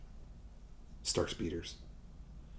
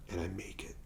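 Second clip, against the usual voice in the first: spent; 13 dB quieter, faster than usual. Pretend. Mock exhaustion arriving.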